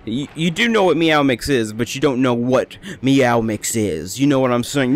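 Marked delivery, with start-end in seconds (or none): 1.7-4.9 slow, ominous, shady tone; shady drug voice. Shown as a demonstration. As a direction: say it like it's illegal. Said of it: "Make it sound like a drug".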